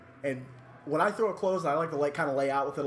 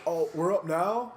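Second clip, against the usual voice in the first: slow startled "Oh, we're up now?"; a hint of panic; surprised question; 3 semitones higher, slower than usual. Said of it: "And he goes".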